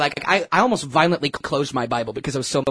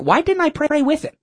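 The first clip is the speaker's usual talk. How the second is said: self-reproach; 9 semitones higher, 4 dB louder than usual. Real, not acted. Regretting not praying with him.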